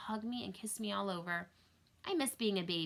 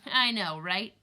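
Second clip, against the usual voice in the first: amused agreement; 2 semitones higher, 9 dB louder, slower than usual. A narrator's reading. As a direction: agree with a big grin. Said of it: "Dad answered, smiling".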